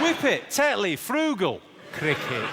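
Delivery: high, hammed-up Yorkshire word list; Yorkshire impression. Comedian lists Yorkshire stereotypes, mock Yorkshire accent. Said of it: "My favourite Yorkshire phrase".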